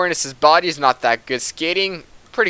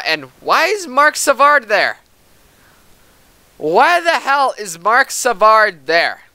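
baffled; 8 semitones higher, 7 dB louder, slower than usual. Real, not acted. Unexpected player on ice.

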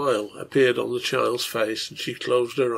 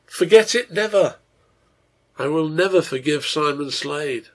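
furious vow; 4 semitones higher, 4 dB louder than usual. Acted. Father vows revenge.

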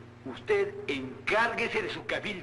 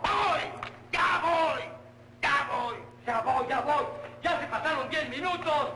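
calling out; 5 semitones higher than usual. Acted. Calling out impatiently to the kitchen.

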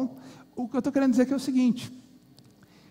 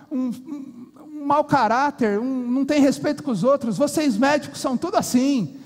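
rude angry father; 6 semitones higher than usual. Acted. Boy's father berating the late doctor, furious and rude. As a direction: tell the doctor off with contempt. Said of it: "foi grosso com ele".

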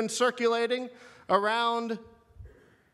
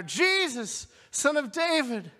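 insistent plea, slightly raised; acted cry growing more urgent; louder still; 3 semitones higher than usual. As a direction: press the appeal harder, pitch lifting on the name. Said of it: "He gets louder".

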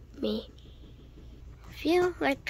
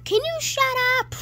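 higher, louder irritated shout; annoyed yell; 12 semitones higher, 4 dB louder than usual. Acted. Friend fed up with the singing, snapping shut up.

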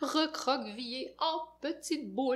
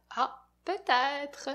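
usual speaking voice

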